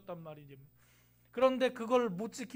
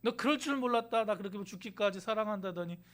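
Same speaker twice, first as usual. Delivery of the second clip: mock reproach; 2 semitones lower than usual. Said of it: "에이, 그러셨어요?".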